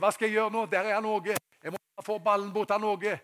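loud, high, urgent self-talk; urgent game thinking. Retold or imitated. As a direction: think on your feet mid-match. Young player acting in the game. (høyt og ivrig)

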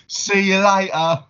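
put-on high, slow grown-up goodbye from a small girl; like a full-on adult. Little Zoe at the top of the stairs, mock adult farewell. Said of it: "like a full-on adult".

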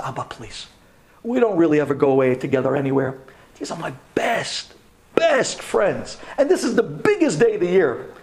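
retold teenage plea, working up from hushed to insistent; pleading. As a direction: plead earnestly with your father. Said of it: "and I pleaded".

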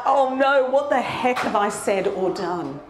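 high dismayed outburst, retold; mock freak-out. Speaker retelling her panic in W H Smith, freaking out. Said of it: "I'm freaking out".

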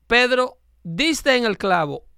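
slow "diste en el clavo", falling to a stop on "clavo"; measured reading that halts after "clavo"; pause at comma. Shown as a demonstration. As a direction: set "Pedro" apart, then close off "clavo" for the comma. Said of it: "y pausa, ¿ves?".

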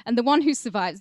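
put-on "And the one who survives" in a loud Mexican gangster accent. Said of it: "Should I do a Mexican accent?".

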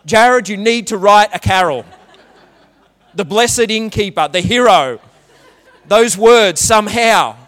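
chuckling through the words; laughing suggestion to Jared. Real, not acted. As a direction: joke while laughing to the musician. Preacher laughing at his joke.

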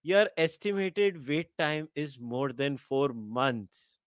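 slow, soft automated announcement read; deadpan like a recorded hold message; phone menu voice. Shown as a demonstration. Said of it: "like a glorified, uh, uh, sales call".

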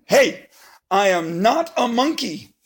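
indignant. Acted. Reader objects.

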